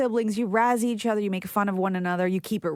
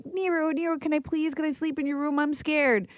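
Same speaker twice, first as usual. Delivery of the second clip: put-on scared little kid; 7 semitones higher than usual. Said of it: "I'd be like".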